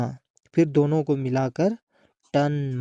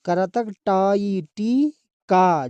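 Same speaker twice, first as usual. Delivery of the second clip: slow syllable reading; 3 semitones higher, slower than usual. Shown as a demonstration. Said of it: "जोड़ी पढ़ना है".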